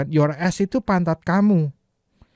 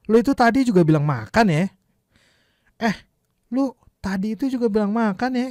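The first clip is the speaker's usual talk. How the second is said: casual Jakarta demo; 6 semitones higher, 4 dB louder than usual. Shown as a demonstration. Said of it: "dirubah jadi gayanya orang Indonesia".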